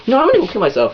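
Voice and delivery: high-pitched mock hysterics; distraught girlfriend impression. Girlfriend escalating to boyfriend not listening, mock distraught.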